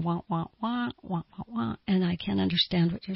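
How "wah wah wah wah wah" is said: imitated muffled talking. Listener who can't concentrate hears only noise, imitated wah-wah. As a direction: mimic meaningless mouth noise, quietly. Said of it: "it's like your mouth is going".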